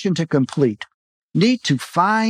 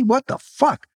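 shocked outburst; 8 semitones higher than usual. A narrator's reading.

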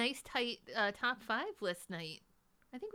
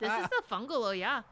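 put-on Midwest accent; 9 dB louder than usual. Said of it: "That's my Midwest accent".

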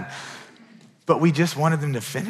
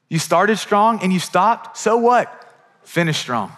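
higher and louder, a rising challenge; fired-up challenge; 5 semitones higher, 4 dB louder, slower than usual. Acted. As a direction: throw down the challenge to the room. Preacher challenging the congregation.

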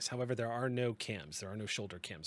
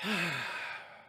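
exhale; 7 semitones higher than usual. A narrator's reading. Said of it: "she just exhales and says".

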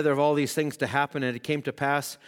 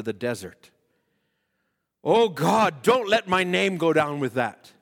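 retold prayer. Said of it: "Brother Branham would say, as he's praying".

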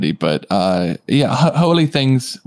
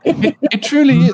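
character voice; 13 semitones higher than usual. Acted. Player replies in character.

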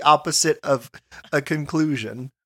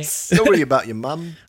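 put-on Australian accent. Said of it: "Australian accent".

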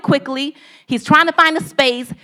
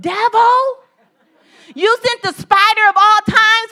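high, laughing exasperation at the devil; half-laughing gripe about the spider; laughing complaint; 7 semitones higher than usual. Retold or imitated. Man in cave blames the devil, laughing.

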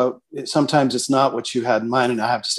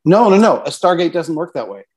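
exasperated correction; 4 semitones higher than usual. Retold or imitated. Writer correcting a new director on canon, exasperated. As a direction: set the new director straight on Stargate lore.

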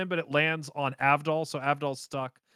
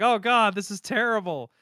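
higher-pitched hammed-up despair; mock dismay; 5 semitones higher than usual. Joseph stuck on the escalator, mock dismay. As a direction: wail it in mock distress.

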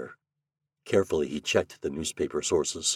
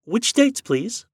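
a much higher, polite woman's voice; human female voice; 4 dB louder, slower than usual. A narrator's reading. Librarian answers Shandor's call, polite female voice. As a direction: sound like a helpful librarian on the line. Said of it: "A female voice, quite human".

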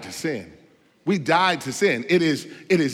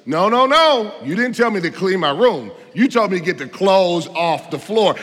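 mildly indignant, louder opening on the denial; protesting kid; 4 dB louder than usual. Retold or imitated. Child answering a parent about cleaning the room, mildly protesting. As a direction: argue back like a child caught out on a technicality.

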